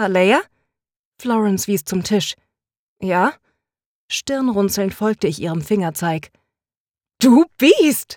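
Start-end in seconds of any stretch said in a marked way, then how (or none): 7.2-8.2 half-laughing scold, pitched up and loud. The narrator scolds the turtle crawling out of its shell, scolding while laughing. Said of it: "schimpfte ich lachend".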